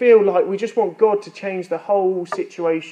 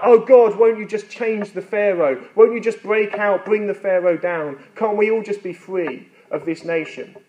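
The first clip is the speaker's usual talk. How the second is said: raised plea, easing toward the end; Israelites pleading with God; 4 semitones higher than usual. Acted. Israelites asking God to free them, pleading. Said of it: "imagine the Israelite people being like".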